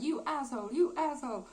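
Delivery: mildly acted anger, pitch lifted; angry. Eva cursing him, really angry in a retold way. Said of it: "is really angry".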